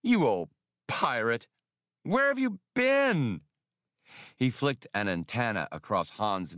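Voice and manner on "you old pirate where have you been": put-on chirping drunk alien. A narrator's reading. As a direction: chirp it out like a drunken little insect. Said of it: "then chirped".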